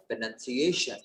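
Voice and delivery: प्रोनाउंसिएशन with a clear s before the ending; pronunciation with "sa". Shown as a demonstration. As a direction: repeat प्रोनाउंसिएशन carefully, s sound in the middle. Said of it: "सा आएगा".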